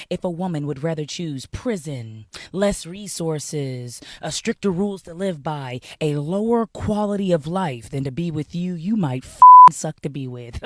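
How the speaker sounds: deliberately slow. Real, not acted. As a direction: spell it out slowly for slow listeners. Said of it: "I'm gonna say this slow".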